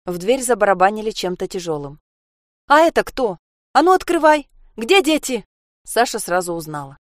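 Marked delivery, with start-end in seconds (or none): 2.7-5.5 angry shouting. Acted. Mother pounding on the door.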